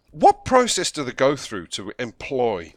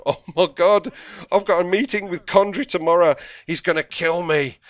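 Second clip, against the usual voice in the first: loud, high comic panic; panicked; 7 semitones higher, 5 dB louder than usual. Acted. Director dreads tomorrow's meeting with Condry, panicked. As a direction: wail in hammed-up dread.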